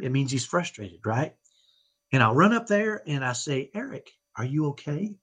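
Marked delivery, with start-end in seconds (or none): 3.7-5.2 soft, soothing check-in; quiet calming voice for an upset child. Retold or imitated. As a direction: gently ask if he's okay, to settle him. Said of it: "I say it in such a calming way now".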